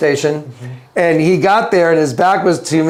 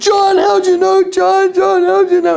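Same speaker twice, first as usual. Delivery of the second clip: mock very high crying, words sobbed out. Telling a story of a man coming up to him weeks later: imitating someone crying. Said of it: "And he's crying".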